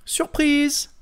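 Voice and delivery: high, bright burst of surprise; surprise excitedly exclaimed. Acted. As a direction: throw it out like a party reveal. Exclamation ouvrant la vidéo. (surprise enjouée)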